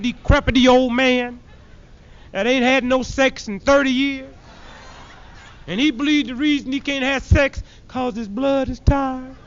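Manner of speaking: normal talking voice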